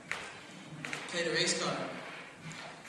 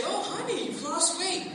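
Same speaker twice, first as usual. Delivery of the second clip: lightly raised, hammed-up husband; mock husband; 10 semitones higher than usual. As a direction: play the nervous husband trying to flatter. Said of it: "If you say".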